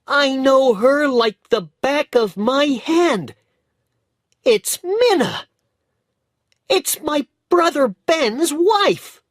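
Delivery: put-on high, loud, urgent boyish outburst; crying out the woman's name in shock; excited cry. A narrator's reading. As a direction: bootblack boy shouting excitedly. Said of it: "he cried".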